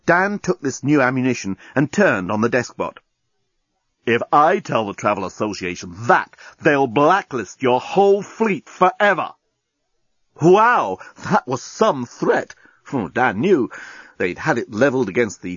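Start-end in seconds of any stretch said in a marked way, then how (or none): 4.1-9.3 threatening. Acted. Dan threatening the deskbot.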